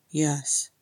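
grim, restrained confirmation. Acted. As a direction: confirm it grimly. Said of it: "Thorin said grimly".

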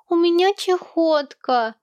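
put-on high, slow, strange child voice; a small child wailing it out slowly; child's cry. Child announcing his illness, in a high slow wail.

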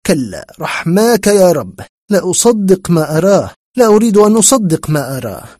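a touch of horrified disbelief, rising; ذعر وإنكار. Acted. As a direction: plead in mild dread, refusing to believe. الراوي مذعور مما يراه. (ذعر خفيف ممزوج بعدم التصديق)

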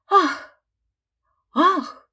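high, loud gasp of shock. A narrator's reading. Crowd gasping at the ruined handkerchief, shocked. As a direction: gasp at the burnt hole. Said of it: "ахнула и публика".

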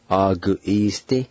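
"Agu isti" in even, joined syllables; "Agu isti" as one word, ah-goo-ees-tee; careful pronunciation demo. Shown as a demonstration. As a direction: model "Agu isti" for learners. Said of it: "I'll pronounce these words one more time".

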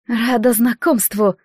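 slow, delicate ringing little voice; a fragile porcelain-doll greeting; crystal chime voice. Acted. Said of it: "хрустальным голоском поздоровалась Флория".

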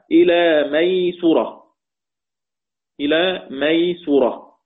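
ميسرة said maysura, with the س read su; damma on the seen. Shown as a demonstration. Teacher slowly reciting Nafi's ميسرة with su on the س. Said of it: "بضم السين".

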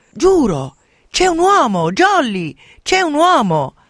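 loud, high cry of alarm; shouting from the window. Acted. A girl shouts to the others at the window, loud. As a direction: yell it out the window, urgent. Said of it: "gridò".

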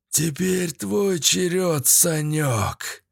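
slow, menacing villain drawl; sneering panto villain. Acted. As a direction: threaten him slowly and gloatingly. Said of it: "зловеще произнёс Юрик".

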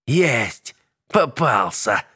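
gleeful, triumphant exclamation; triumphant cry. A narrator's reading. Witch catching the spirit, triumphant cry. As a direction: gloat over the catch. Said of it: "победно провозгласила колдунья".

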